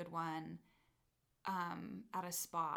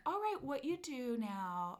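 spa voice; 4 semitones higher than usual. Retold or imitated. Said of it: "talking my, like, spa voice".

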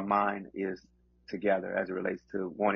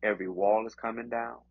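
preaching. Acted. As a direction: preach with rising conviction. Delivers encouragement as preaching.

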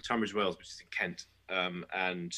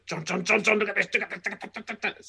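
excited calling; 12 semitones higher, 5 dB louder than usual. Retold or imitated. Excitedly calling his friend over.

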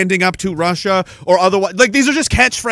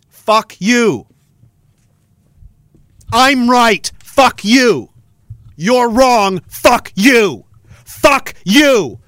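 real angry back-and-forth; much slower than usual. Real, not acted. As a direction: spit each line out. Angry chant at politicians.

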